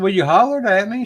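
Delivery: high-pitched puzzled insistence; retold baffled protest. Investigator answering his teammate, high and insistent. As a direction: protest it high, retelling a mix-up. Retold dispute over who hollered.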